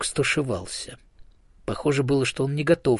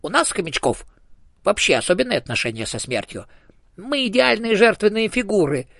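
much higher, grand squeaky speech; a tiny ghost getting lofty; hamster ghost; 9 semitones higher, 4 dB louder than usual. A narrator's reading. Dead hamster holding forth to the elephant, high and solemn.

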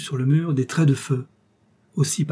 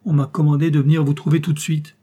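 stammering; 3 semitones higher, 6 dB louder than usual. Acted. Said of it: "balbutia l'intendant".

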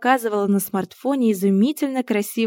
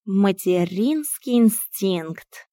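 diagnosis; much slower than usual. Acted. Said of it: "поставил диагноз Миун".

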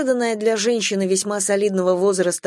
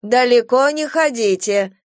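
anxious; 5 semitones higher, 4 dB louder than usual. Acted. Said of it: "тревожно вставляет бабушка".

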